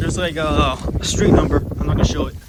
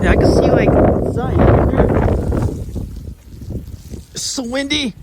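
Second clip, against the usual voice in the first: gasping in icy wind; 8 semitones higher, 4 dB louder than usual. Real, not acted. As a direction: gasp the words into the wind.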